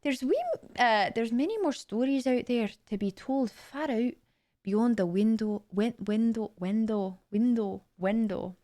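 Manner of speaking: tentative Scottish teacher voice; Professor McGonagall. Acted. Streamer practising lines as a Scottish professor, attempted accent. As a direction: try a careful Scottish accent, feeling out the vowels.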